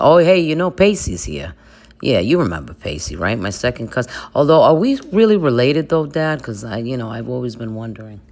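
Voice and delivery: put-on Jersey Italian accent, swinging pitch; Dawson. Homesick son talking to Pops, Jersey Italian accent. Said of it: "call his dad from the creek in New Jersey".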